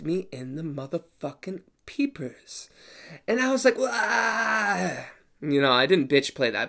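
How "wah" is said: overdramatic wail. Retold or imitated. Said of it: "Overdramatic there".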